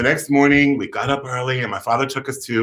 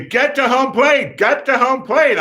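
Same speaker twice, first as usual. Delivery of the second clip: high, strained mock yell; screaming coach; 11 semitones higher, 4 dB louder than usual. Coach screaming at a clueless kid at bat, mock scream. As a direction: yell it high as an imitated coach barking orders. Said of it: "was, like, screaming at me".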